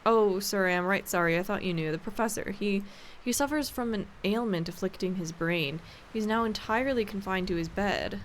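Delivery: put-on light country-servant accent on I am right sorry; housekeeper's rustic accent. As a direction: redo it in the old maid's regional accent. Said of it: "so she has a different accent".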